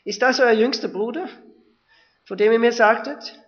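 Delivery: moved Josef. Acted. Josef seeing his youngest brother, moved. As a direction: Josef barely holding back.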